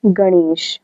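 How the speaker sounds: गणेश with a curled-tongue ण; retroflex ण. Shown as a demonstration. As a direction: model गणेश, ण close to ड़. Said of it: "इसको हम क्या पढ़ेंगे".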